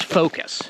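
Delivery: focus ending almost in "-is"; reduced U. Shown as a demonstration. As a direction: swallow the U in focus. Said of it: "it's almost like an E S".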